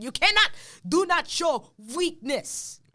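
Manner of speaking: slow, punched cannot and not; emphatic. Real, not acted. Urging the host never to show weakness, slow and emphatic. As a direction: hammer every word home. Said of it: "advice given emphatically".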